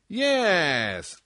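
loud, high, bullying king voice; roaring tyrant king. Acted. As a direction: boom like a spoiled drunken tyrant. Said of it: "said the king".

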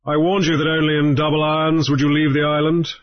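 sad murmur. A narrator's reading. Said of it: "murmured down with a sad inflection".

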